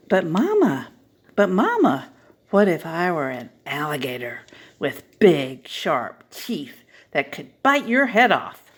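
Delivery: put-on a small kid begging for an answer; excited child's voice tugging at mama. Child voice in story.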